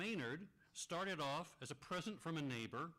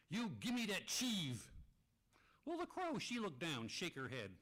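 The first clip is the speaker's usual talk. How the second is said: a goofy puppet moose telling his story, pitched up; 5 semitones higher, slower than usual. Acted. Puppeteer gives Maynard the moose his own voice. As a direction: play the silly moose puppet with big storybook swings.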